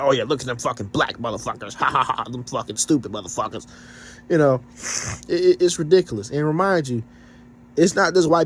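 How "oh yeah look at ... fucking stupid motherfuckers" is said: a sneering racist voice that breaks into a mocking laugh; lightly imitating a racist who laughs at his own jab; mock racist commenter. Imitating racist commenters mocking black people, sneering with a laugh. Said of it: "They're just saying".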